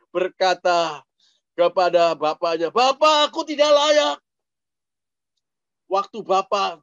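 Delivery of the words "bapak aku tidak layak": remorseful son. Retold or imitated. Prodigal son confesses to father.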